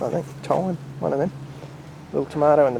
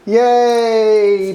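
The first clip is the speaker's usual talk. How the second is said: high, loud cheer for the dog; 7 semitones higher, 8 dB louder than usual. Real, not acted. Owner cheering Bobby's trick, high and loud. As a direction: let out a delighted yay.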